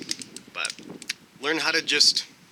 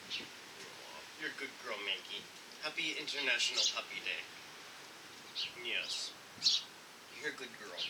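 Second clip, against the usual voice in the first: soft, tender praise for a dog; gentle, affectionate murmur to a pet; fond dog talk; 14 dB quieter than usual. Real, not acted. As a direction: coo quietly to your good dog.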